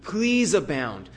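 slow, drawn-out begging; pleading. Retold or imitated. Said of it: "he's begging us".

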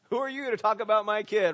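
mock outraged parent confronting someone; protective anger. Father defending his child from an insult, acted protective anger. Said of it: "see a different side of Pastor Brian".

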